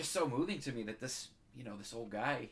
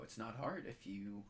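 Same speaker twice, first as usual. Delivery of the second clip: getting moved. Real, not acted. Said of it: "I'm getting moved here".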